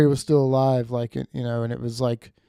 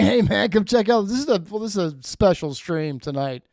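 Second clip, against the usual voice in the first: hyped-up invitation; 5 semitones higher than usual. Retold or imitated. Mock invite to friends.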